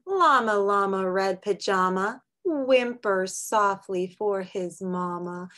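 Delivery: sing-song picture book read; reading to children. Acted. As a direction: read it gently to little kids. Reads a picture book aloud.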